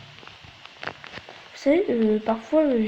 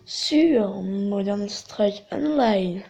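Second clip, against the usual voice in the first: put-on English accent on the game name, drawn out slowly; accent anglais; much slower than usual. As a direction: say Modern Strike Online in a showy English accent. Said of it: "Toujours mon petit accent anglais". (accent anglais appuyé et lent)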